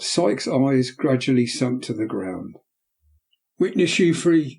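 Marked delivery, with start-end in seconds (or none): 3.6-4.6 put-on a boy crying out, higher and urgent; excited cry. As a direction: call on the witnesses, fist shaking. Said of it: "cried the boy".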